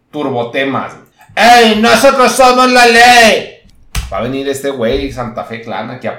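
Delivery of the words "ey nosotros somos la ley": loud, high, slow cholo boast; hammed-up cholo declaration; cholo shout. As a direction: bellow it like a gang motto. Cholo catchphrase repeated loudly.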